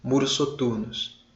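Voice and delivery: soft, slow reading of the line; slow verse reading. Shown as a demonstration. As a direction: read the verse quietly and slowly. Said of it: "a gente lê o próximo verso aqui". (leitura lenta e suave do verso)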